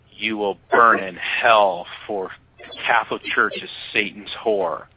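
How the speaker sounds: slow, mock Russian condemnation; heavy Russian accent. Young churchman damning a Catholic, slow Russian accent. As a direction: pronounce doom in a put-on Russian accent. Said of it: "this heavy Russian accent".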